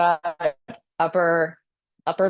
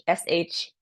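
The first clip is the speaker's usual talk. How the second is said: short shh. Shown as a demonstration. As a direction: clip it to a quick shh. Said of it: "the liver is sh".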